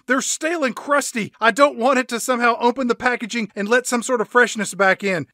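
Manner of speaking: high, fast prissy shop owner; snooty high voice. Acted. Voicing snooty bakery owner.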